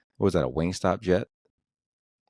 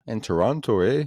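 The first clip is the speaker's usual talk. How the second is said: mock Canadian accent; 4 semitones higher than usual. Mocking how Canadians talk.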